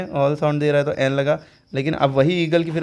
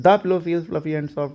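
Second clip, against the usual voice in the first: slow, careful English example; slow example reading; much slower than usual. Shown as a demonstration. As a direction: read slowly for students. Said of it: "example sentence read out".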